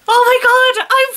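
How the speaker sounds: high, loud burst of disbelief; shocked outburst. Real, not acted. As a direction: blurt it out in real shock. Shocked reaction to the story text.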